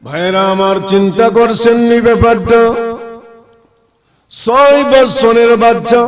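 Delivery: measured sing-song sermon delivery; melodic preaching. Real, not acted. Preacher asks his brothers to reflect, melodic preaching. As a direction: intone it to the brothers in the congregation.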